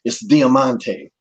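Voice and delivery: slow, careful "Diamante" as Conan says it; Conan's pronunciation. Retold or imitated. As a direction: draw out "Diamante" slowly, correcting. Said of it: "it sounded exactly the same every time".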